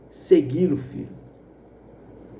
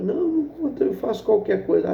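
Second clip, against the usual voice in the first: desperate plea; 5 semitones higher than usual. Acted. Son begs foreman again.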